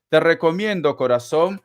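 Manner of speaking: throat catching before a cough; frog in throat. Real, not acted. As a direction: voice snagged by a tickle. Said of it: "perdón, la garganta".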